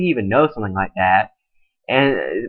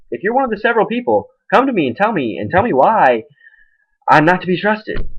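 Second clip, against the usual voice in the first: pleading appeal; 8 semitones higher than usual. Real, not acted. Appealing to viewers, raised pitch.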